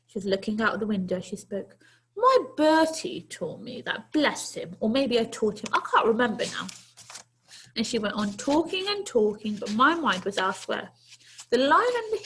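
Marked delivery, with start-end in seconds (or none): 2.2-6.7 put-on a brisk granny inviting the boy in; kindly old lady. Old lady to the runaway boy, kindly coaxing.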